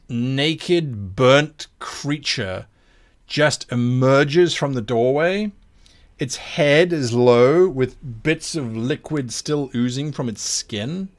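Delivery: measured dramatic scene-setting with lingering key words; game master narration. Acted. Game master describing a monster's entrance to players, dramatic narration. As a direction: paint the scene, drawing out the menace.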